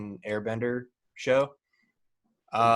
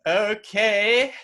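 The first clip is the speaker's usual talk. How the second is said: airy okay; 9 semitones higher, 5 dB louder than usual. Retold or imitated. Execs casually approving.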